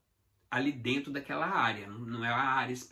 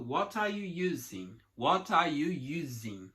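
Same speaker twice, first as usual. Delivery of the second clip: linked together; slower than usual. Shown as a demonstration. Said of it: "tem que juntar tudo".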